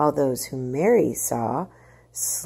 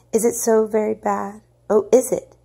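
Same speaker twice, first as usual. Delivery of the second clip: higher, pleading and scared; frightened plea; 6 semitones higher, 5 dB louder than usual. Acted. Mother pleading with young officer, frightened and high. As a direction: beg him to say it isn't true.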